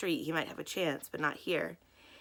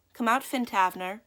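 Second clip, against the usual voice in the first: louder, higher, a firm command; loud and clear; 5 semitones higher, 7 dB louder than usual. A narrator's reading. Miss Minton calls Finn out of the cellar, loud and clear. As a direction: call down into the cellar with authority. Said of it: "she said loudly and clearly".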